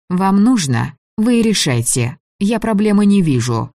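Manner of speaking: sharp scornful comeback; defiant retort. Acted. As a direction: throw their words back at them. Heroine defiantly retorts to elders.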